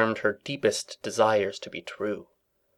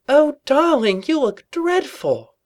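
Rarity voice; 4 dB louder, slower than usual. A narrator's reading.

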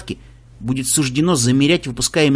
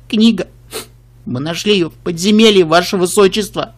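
sniffling; 3 semitones higher, 3 dB louder than usual. Acted. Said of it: "шмыгая носом".

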